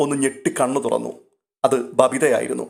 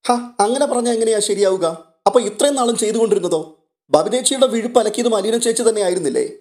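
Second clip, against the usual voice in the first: put-on higher, lively young girl protesting; younger sister's voice; 8 semitones higher than usual. Younger sister argues with elder sister, higher and indignant. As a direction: pitch her up, cheeky and defiant.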